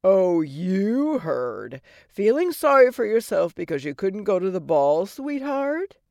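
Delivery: brash, mocking fairy godmother; sassy godmother voice. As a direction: tease her like a sarcastic old fairy. Godmother teasing.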